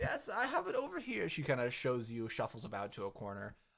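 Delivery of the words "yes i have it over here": put-on very high-pitched old grandma voice. Voicing a grandma shopkeeper offering a sweater: grandma character voice. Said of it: "she's like".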